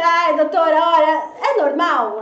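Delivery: high, loud, sing-song whine, slowed; mock anxious mother. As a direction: whine it like a fretting mother asking the doctor. Mocking parent sending poop photo.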